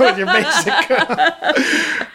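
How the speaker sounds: hammed-up Chicago accent, breaking into laughter; comic Chicago-accent impression; Chris Farley's Bears fan. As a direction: imitate a Chicago sports superfan, laughing. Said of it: "I'm doing an imitation of Chris Farley".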